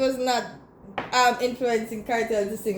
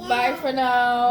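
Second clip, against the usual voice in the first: drawn-out bye for now; slow goodbye; slower than usual. Real, not acted. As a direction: say it slowly to camera. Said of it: "do you wanna say bye".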